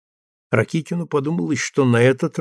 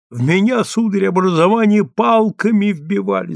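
hurried; 7 semitones higher than usual. A narrator's reading. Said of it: "заторопился Рукавицын".

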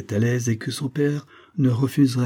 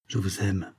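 soft, muted declaration of love; hushed and understated; muffled voice; 6 dB quieter than usual. A narrator's reading. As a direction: confess it quietly, voice held back. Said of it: "d'une voix sourde".

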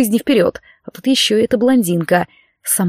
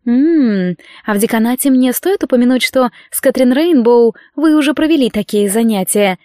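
purring; 2 semitones higher than usual. Acted. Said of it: "промурлыкала она".

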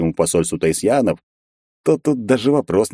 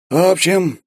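awkward; 11 semitones higher, slower than usual. A narrator's reading. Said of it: "неловко начал Кичендаш".

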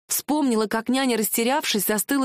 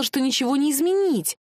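ordinary delivery

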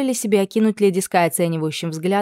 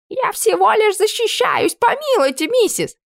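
much higher, slow pleading squeal; cowering camp cook; 4 dB louder than usual. Acted. Camp cook pleading with the cook, cowering, squealing. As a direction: squeak out a frightened plea.

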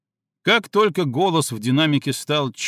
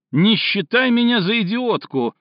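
high, loud, screeching outburst; shrill scream; 8 semitones higher, 4 dB louder than usual. Acted. Cindy screaming at Stinov over the phone, shrill. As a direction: shriek it at him, losing control. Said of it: "визгливо закричала Синди".

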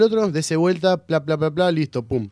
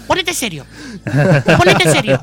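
put-on a cranky old lady ordering him to behave; mock stern old nurse; 3 semitones higher than usual. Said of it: "y me dice".

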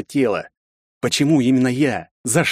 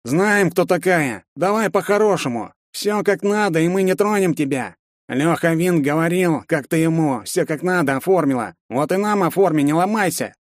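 leering thug; 7 semitones higher than usual. Acted. Thug coaxes girl menacingly.

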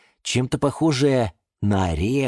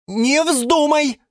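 high, loud, slow warning; stern; 5 dB louder, slower than usual. Acted. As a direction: forbid it firmly. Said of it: "строго сказали в один голос". (строго)

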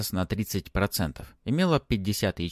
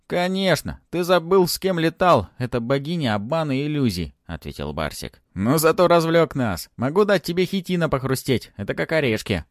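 higher, louder mocking creature voice; gleeful little dragon; 8 semitones higher, 5 dB louder than usual. Dragon Barsik teasing Ant, higher and louder. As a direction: tease him as a cheeky dragon.

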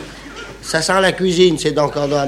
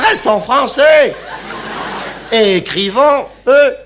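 indignant outburst; 6 semitones higher than usual. Acted. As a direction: insist on speaking French.

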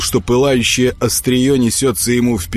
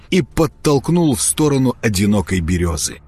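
usual speaking voice

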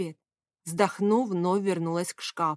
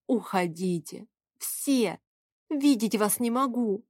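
sobbing; 3 semitones higher, slower than usual. A narrator's reading. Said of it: "прорыдала".

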